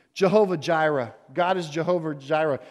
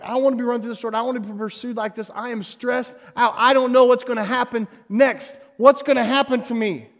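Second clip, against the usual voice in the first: rising, pleading cry of a desperate prophet; anguished prophet crying out to God; voicing Elijah's despair; 4 semitones higher than usual. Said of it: "he's like".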